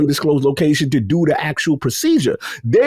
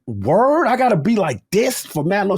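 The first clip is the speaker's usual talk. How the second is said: higher-pitched, mildly alarmed disbelief; incredulous protest; 5 semitones higher than usual. Retold or imitated. Patient to staff strapping him in, mildly incredulous. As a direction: question it in a raised, baffled voice.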